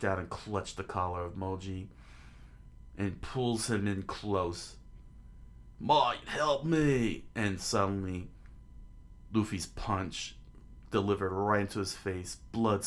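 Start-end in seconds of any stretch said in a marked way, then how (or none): 5.8-7.3 higher, louder, slow desperate cry for help; frightened slow shout; panicked plea. Acted. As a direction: beg for rescue, drawn out. Begging as fist stretches in.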